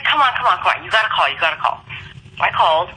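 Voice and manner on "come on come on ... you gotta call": urging. Retold or imitated. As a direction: egg a friend on, quick repeats. Coworker urging her to call.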